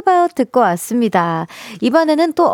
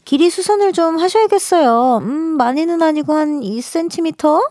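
shop clerk; 5 semitones higher than usual. Acted. Acted alteration clerk in letter.

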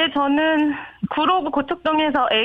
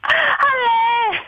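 caller voice ringing with echo; radio echo on the phone line; digital echo; 9 semitones higher, much slower than usual. Real, not acted. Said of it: "청취자한테 에코 넣었어요?". (울리는 에코 목소리)

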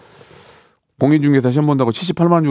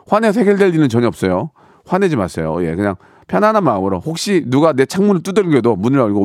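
ordinary talk, nothing marked

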